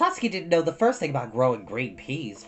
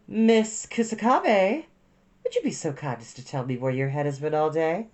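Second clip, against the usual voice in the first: calm stern teacher. A narrator's reading. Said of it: "Miss Moriyama's voice was calm".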